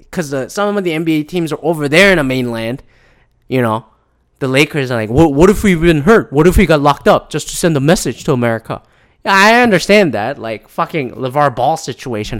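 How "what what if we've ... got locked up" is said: loud, imitated worried protest; loud what-if complaint; mock worry. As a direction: voice the players' worry, raised volume. Voicing worried Lakers players.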